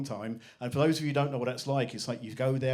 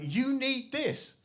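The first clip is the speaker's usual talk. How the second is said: mock sarcastic anger. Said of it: "I was so angry".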